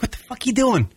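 high, exasperated mock motto; annoyed Long Islander. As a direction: groan it at some numbnut. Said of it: "Long Island should be like".

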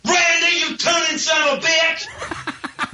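laughing playful yell; shouting. Real, not acted. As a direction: call him out with a laughing shout. Caller jokingly yells at Randy.

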